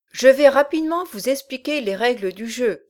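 loud gruff giant voice; a menacing brute giving orders. Acted. Bolbec declares rules.

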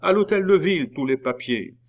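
high, loud rallying cry, easing at the end; acted mob outcry, pitched far up; crowd shout. A narrator's reading. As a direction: shout it like a crowd taking up a call. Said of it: "crièrent cent voix".

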